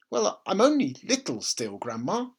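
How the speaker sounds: put-on dutiful small boy answering; little boy's voice. A narrator's reading. George answers grandma.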